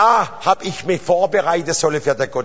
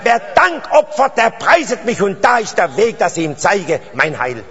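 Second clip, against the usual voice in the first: verse proclaimed high and loud; emphatic repeat of scripture; forceful proclamation; 7 semitones higher, 6 dB louder than usual. Real, not acted. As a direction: drive the verse home to the congregation, easing down at the end. Repeats verse forcefully after checking understanding.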